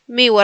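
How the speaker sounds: "Miłe" said mi-ue; Polish ł as "ue". Shown as a demonstration. Teacher repeating the word for students, ł as w. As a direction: glide through the ł of Miłe like a w. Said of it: "la L con palito se pronuncia ue".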